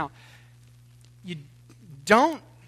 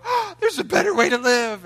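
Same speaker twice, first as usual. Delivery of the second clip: higher, louder, glad relief; joyful realization; 9 semitones higher, 6 dB louder than usual. Retold or imitated. Preacher showing how conviction should sound, joyful and lifted. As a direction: let joy break through. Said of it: "I can go".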